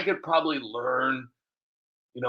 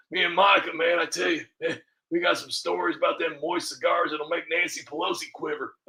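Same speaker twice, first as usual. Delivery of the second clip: Bill Clinton impression; 2 semitones higher than usual. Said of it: "when I talk like Bill Clinton".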